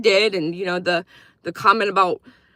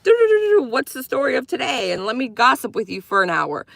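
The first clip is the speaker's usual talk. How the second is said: mock gossiping hen. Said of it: "cackle like a hen".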